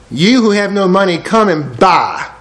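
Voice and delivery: slowing right down on come and buy; slow reading. Shown as a demonstration. Preacher rereads Isaiah, slowing on the offer. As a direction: let come and buy land slowly.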